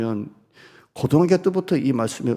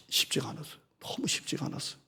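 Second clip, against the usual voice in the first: hushed confession; 15 dB quieter, faster than usual. Real, not acted. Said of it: "pastor admits hardship".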